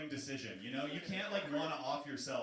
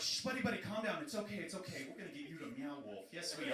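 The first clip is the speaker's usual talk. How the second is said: soothing guard; 3 semitones higher than usual. Retold or imitated. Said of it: "They're just like".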